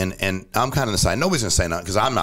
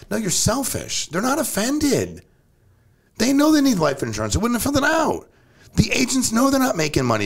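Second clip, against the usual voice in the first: high-pitched, fired-up push against excuses; heated rant; 11 semitones higher than usual. Real, not acted. Host scolding agents who won't sell, heated and high. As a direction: call them out, voice climbing high.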